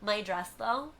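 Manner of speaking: hesitant, soft start with rising question; a touch of sheepish heroine; lightly voiced Cinderella. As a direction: timidly raise an objection. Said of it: "And she's like".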